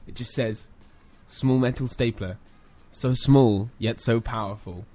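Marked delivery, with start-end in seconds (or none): 1.3-4.9 slow, grave poem recital; solemn haiku reading. Shown as a demonstration. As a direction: read it like a weighty poem. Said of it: "intense haiku ever about staplers".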